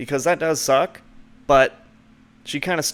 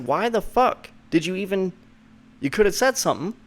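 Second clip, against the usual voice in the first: frustrated; 5 semitones higher than usual. Retold or imitated. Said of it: "kinda frustrated".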